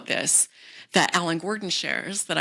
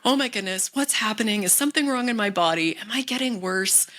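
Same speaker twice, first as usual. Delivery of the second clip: panicked inner voice; 3 semitones higher than usual. Pretend. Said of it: "instead of panicking".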